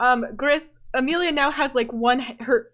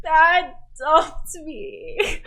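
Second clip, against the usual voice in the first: wailing; 4 semitones higher, 5 dB louder, much slower than usual. Acted. Crying girl names her ex.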